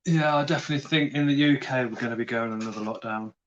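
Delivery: talking while munching chips; crunching chips. Real, not acted. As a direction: mouth full of chips. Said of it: "Now I'm munching chips with mayonnaise again".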